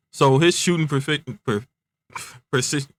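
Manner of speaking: stumbling over the word; tripping on the syllables, restarting; stuttering. Real, not acted. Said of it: "forgive me for my stuttering".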